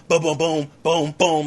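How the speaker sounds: punchy rapid-fire booms; mimicked shooting, boom after boom; imitated gunfire booms. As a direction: punch out each boom like a shot. Imitates soldier shooting without looking.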